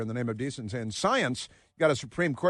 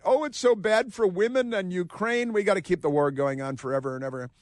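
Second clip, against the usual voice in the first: mock whiny Kimmel; 4 semitones higher than usual. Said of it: "he's literally crying, saying that".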